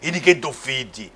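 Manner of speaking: orate like the ex-president at a rally; Lula impression. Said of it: "a minha imitação melhor mesmo foi a Lula".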